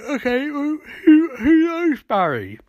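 high-pitched, pressing question; hammed-up demand, dropping on the name; mock demanding. Iris presses Barry about his secret, mock demanding.

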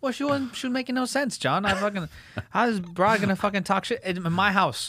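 man worked up defending his argument to his friend; heated protest. Real, not acted. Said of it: "I hear him yelling".

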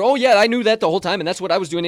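high, loud mocking know-it-all; mock the guy who always knew it, way up high; smug know-it-all.

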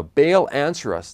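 calling out loud and slow to a silent god; mock shout. Preacher imitating prophets crying to Baal, slow mock shout. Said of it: "they shouted".

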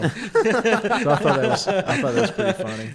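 slow, high, laughing while talking. Real, not acted. Storyteller laughs at his own hotel story, high. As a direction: laugh the words out.

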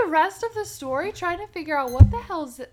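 high, loud and fast; exasperated outburst. Real, not acted. Host asked who Zachiel is, exasperated outburst. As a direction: blurt it out, baffled and exasperated.

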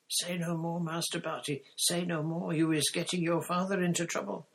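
very high trembling elf voice; pleading elf. A narrator's reading. Winky begging her master to stop talking, high pleading voice. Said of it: "Winky was shaking her head, trembling".

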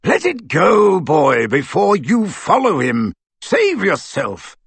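slow, emphatic urging; urgent exhortation. Acted. Aberforth urging the boy to save himself, insistent. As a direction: press him hard to give up.

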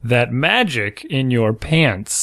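slow, flat lyric reading; deadpan reading. Shown as a demonstration. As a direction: read it dry and slow. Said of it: "read it deadpan".

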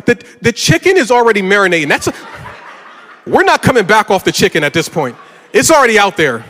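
pleading his case over marinated chicken; exasperated pleading. Retold or imitated. Retelling heated argument with wife.

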